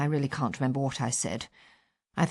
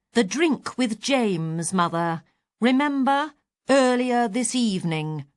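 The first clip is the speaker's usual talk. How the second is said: slow, loud, as if to a deaf mother; patronising slow loud explanation; 5 semitones higher than usual. Retold or imitated. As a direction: spell each word out slowly and loudly. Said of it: "slowly and loudly".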